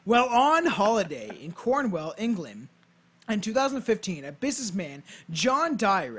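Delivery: storyteller read with punched key words; measured, emphatic read-aloud; scripted narration. Acted. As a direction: present it like a podcast history script. Reads a scripted ghost tale.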